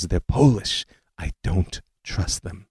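put-on slow, soft Eastern European accent; wary old aunt, Eastern European accent. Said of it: "in her thick Eastern European accent".

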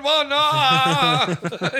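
sharp, loud, high shout. Retold or imitated. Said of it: "Why are you yelling?".

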